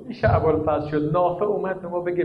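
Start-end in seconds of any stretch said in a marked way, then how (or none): 0.1-1.1 the same words dropped much softer, almost to himself; hushed repeat. Acted. Preacher to mourners, repeating it softly. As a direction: let the echo fall away quietly. Quiet echo of the lament.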